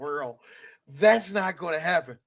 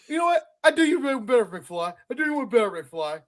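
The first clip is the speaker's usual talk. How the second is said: mock Biff taunt; 4 semitones higher than usual.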